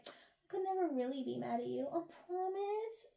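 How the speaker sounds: soft, sweet put-on reassurance, lifting at the end; mock tender promise. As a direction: promise it softly, drawing out the last words. Acted tender reconciliation in story.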